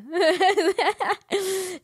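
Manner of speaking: high giggling laugh. Real, not acted. Laughing at the shared complaint, high laugh.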